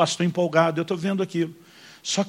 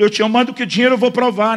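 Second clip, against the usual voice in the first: impassioned prayer; 5 semitones higher, 4 dB louder than usual. Retold or imitated. Man throws money, crying prayer.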